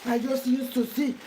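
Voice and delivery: high, delighted gasp of surprise, then amazed; amazed ooh. Pretend. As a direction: play the impressed first taster. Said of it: "you will say".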